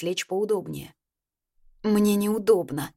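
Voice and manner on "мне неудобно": slow, plaintive complaint; жалобно. Acted. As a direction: drag it out like a mild complaint. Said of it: "пожаловалась я". (медленно, с лёгкой жалобой)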